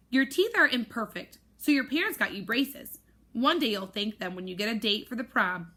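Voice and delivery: roaring scold. Acted. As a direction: boom it out like a strict teacher. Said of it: "Missus V roars".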